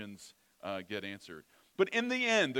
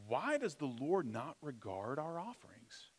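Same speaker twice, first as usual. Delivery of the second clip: lightly voiced entitled preteen; a hint of a petulant teen whining; whiny teenager voice; 3 semitones higher than usual. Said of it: "whiny, petulant ... teenager voice".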